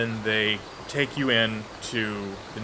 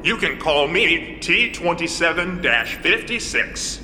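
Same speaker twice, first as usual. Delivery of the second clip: robot voice; 4 semitones higher than usual. Acted. GM plays robot.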